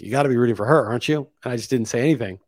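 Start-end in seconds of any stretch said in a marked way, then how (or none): 0.0-1.3 sincere retold question, lightly voiced; earnest, not sarcastic. Acquaintance pressing him to back the Ukrainian, mildly earnest. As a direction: ask it straight, without a trace of irony. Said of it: "But earnestly, not sarcastically".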